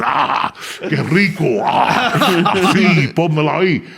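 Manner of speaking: loud, hammed-up moaning in Spanish; mock moaning. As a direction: moan it out like a guy bragging at a bar. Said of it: "making noises".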